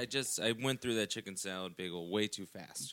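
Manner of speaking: words through a burp; burpy, gassy talk; talking while burping. Real, not acted. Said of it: "you're burping like a maniac".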